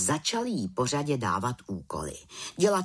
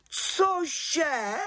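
high-pitched startled exclamation; shocked; 14 semitones higher than usual. A narrator's reading. Head witch hears of Friday magic, shocked. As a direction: burst out in disbelief, voice leaping up.

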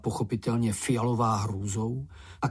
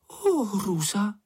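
higher, slow, dismayed gasp-like cry; horrified cry; 8 semitones higher, slower than usual. A narrator's reading. Miss Snork thinks she killed Moomin, mock horror. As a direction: gasp in horror at what you did. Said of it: "vykřikla".

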